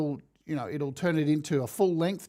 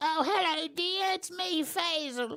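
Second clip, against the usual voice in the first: put-on, very high-pitched old lady voice; 12 semitones higher, 3 dB quieter than usual. Previewing tomorrow's topic, the host jokes about a name: old lady voice. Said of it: "It sounds like an old lady".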